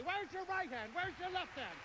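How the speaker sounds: high, overly sweet teacher voice. Retold or imitated. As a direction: back to singsong patience after the scream. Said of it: "come back and say".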